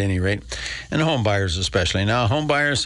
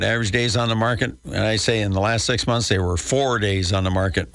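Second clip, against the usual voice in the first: ordinary delivery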